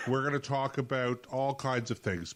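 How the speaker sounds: laughing. Real, not acted. Laughs while listing topics.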